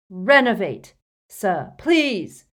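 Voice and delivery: frantic pleading; desperate plea. A narrator's reading. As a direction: cry the spell, then implore. Harry desperately trying to revive Dumbledore.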